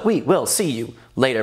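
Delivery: mimicking a laid-back outro; chill sign-off. Host imitating his old video's ending, chill. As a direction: echo your old sign-off, nice and chill. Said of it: "the later was so, so chill".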